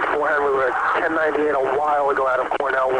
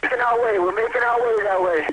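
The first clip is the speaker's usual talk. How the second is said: urgent; 5 semitones higher than usual. Real, not acted. Frantic radio call after collapse.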